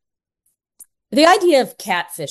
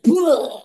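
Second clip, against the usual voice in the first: higher mock "bleh" of being knocked back; imitated recoil noise; 6 semitones higher than usual. Retelling Kira's shock at the confession, imitated recoil noise. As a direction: make the noise of someone thrown backwards. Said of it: "Kira was like".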